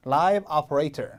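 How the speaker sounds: very slow "Live operator", operator starting ah; English pronunciation. Shown as a demonstration. Teacher repeating the corrected word, slow English "operator". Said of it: "operator 같은 소리가 납니다".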